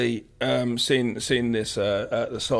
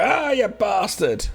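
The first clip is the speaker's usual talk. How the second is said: mild mock anger; 7 semitones higher, 3 dB louder, slower than usual. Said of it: "And the guy's like".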